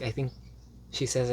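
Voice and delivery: ordinary talk, nothing marked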